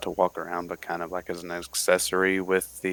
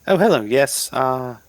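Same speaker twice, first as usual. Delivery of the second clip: eager adventurer; 5 semitones higher, 4 dB louder than usual. Acted. The speaker's character answers barkeep.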